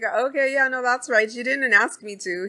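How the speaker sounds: put-on the old-timer quickly smoothing it over; high old man voice, placating; old prospector voice. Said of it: "And the old dude's like".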